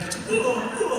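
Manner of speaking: high mock whoa cries; retold screaming. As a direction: imitate the scared yelps. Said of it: "not a guttural thing happening".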